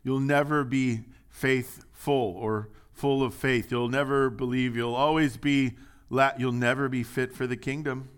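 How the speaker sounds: loud, slow damning rebuke; condemning rebuke. Acted. Jesus condemning faithless people, in a loud slow rebuke. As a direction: condemn them with no hope. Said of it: "He's saying".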